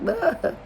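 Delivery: high, short imitated crying whimper; a small high-pitched mock bawl; mock toddler wail. Woman retelling how she cried like an unfed toddler, mock wail. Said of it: "I'm crying like a toddler".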